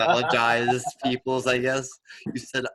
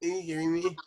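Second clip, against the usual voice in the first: incredulous laughter; 6 semitones higher, 5 dB quieter than usual. Real, not acted. Cracking up watching the impression.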